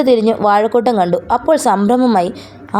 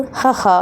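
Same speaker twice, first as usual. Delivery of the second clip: a quiet read-out ha ha; light, breathy laugh; soft chuckle; 2 semitones higher, 4 dB quieter than usual. A narrator's reading. Old man chuckling at the visitor, soft laugh. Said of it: "അയാൾ ചിരിച്ചപ്പോൾ".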